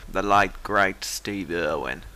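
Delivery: broad amateur Aussie imitation; stereotypical Australian accent. Shown as a demonstration. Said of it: "here goes the Australian one".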